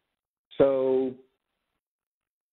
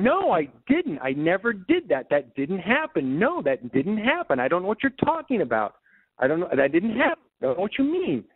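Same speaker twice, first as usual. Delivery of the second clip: put-on a little kid's teary protest, pitched higher and slowed; retold tearful denial; 6 semitones higher than usual. Small boy denying to neighborhood kids, mock tearful pleading. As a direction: relive a six-year-old insisting through tears. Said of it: "I ended up crying my eyes out, going".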